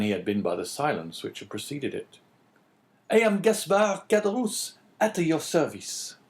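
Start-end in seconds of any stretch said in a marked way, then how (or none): 3.1-6.2 high eager innkeeper voice; much higher servile host. A narrator's reading. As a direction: answer like a surprised servile host. Innkeeper voice in story.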